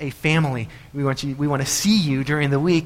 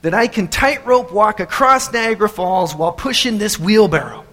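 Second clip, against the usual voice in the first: raised showman's challenge, settling by the end; daredevil addressing crowd; 6 semitones higher, 4 dB louder than usual. Acted. Daredevil with a wheelbarrow polls the crowd, showman's call. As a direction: pitch the bigger stunt to a crowd. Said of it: "and he says".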